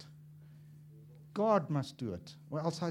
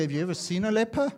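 laughing challenge; 5 semitones higher, 7 dB louder, faster than usual. Retold or imitated. Father teasing sons.

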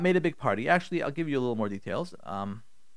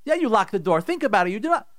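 raised-pitch scoffing retort; acted angry husband; 5 semitones higher than usual. Husband disbelieving his wife locked it, angry. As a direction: throw her claim back at her. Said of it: "in his anger, in his kas".

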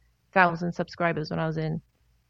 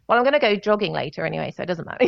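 quick, mock-cocky brush-off; lightly acted nonchalance, ending in a laugh; faster than usual. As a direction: rattle it off with put-on bravado. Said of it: "that's my cocky, I don't know".

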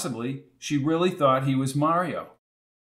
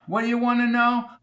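put-on old landlady; 10 semitones higher than usual. A narrator's reading. Landlady voiced.

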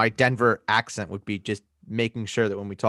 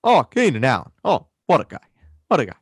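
put-on Minnesota accent; 3 semitones higher, 4 dB louder, faster than usual. Gushing over a receiver, Minnesotan accent. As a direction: swoon in a hammy Minnesota accent. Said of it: "weird guy from Minnesota".

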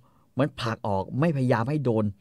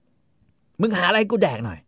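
high, slow bossy demand; husband bossing his wife; mock demanding husband; 8 semitones higher, 5 dB louder, much slower than usual. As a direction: order food in a raised voice. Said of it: "ผัวก็บอก".

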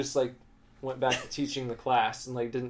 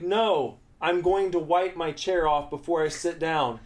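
firm refusal; 4 semitones higher, 4 dB louder than usual. Retold or imitated. Acted argument with teacher.

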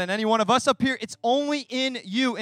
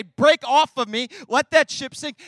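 slow, louder command to hurt; 6 dB louder, slower than usual. Pretend. Preacher voicing a believer casting off hurt, loud and slow. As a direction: order the hurt off you. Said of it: "What you can do is say".

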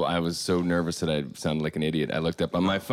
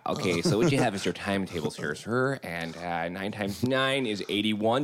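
nerdy Simpsons voice. Pretend. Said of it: "it'd be like the Simpson".

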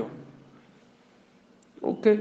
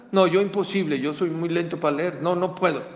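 louder, higher, flat refusal; loud protest; 3 semitones higher, 6 dB louder than usual. Retold or imitated. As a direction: push back hard, it can't be done. Father refuses, too slow reader.

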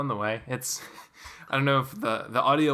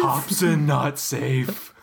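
horror trailer voice; slower than usual. Pretend. Riffing on tagline, slow.

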